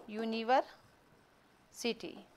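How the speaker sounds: "यूनिवर्सिटी" drawn out in two separated parts; slow dictation. Shown as a demonstration. Teacher spelling out a word for students, slow dictation. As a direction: break it slowly into यूनिवर, pause, सिटी. Breaking the word up while writing.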